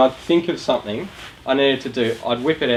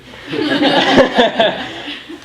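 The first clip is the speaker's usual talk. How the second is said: high burst of laughter; 11 semitones higher than usual. Real, not acted. Laughs at his own aside.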